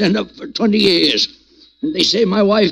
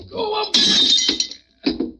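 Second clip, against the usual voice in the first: breathy whimper; much slower than usual. Acted. Old man fading in sleep.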